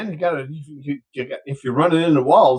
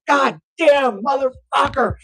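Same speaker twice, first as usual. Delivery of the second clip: high-pitched exasperated cursing; aghast bartender; 8 semitones higher, slower than usual. Acted. Bartender seeing million ducks, high aghast cursing. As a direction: swear in high outraged disbelief.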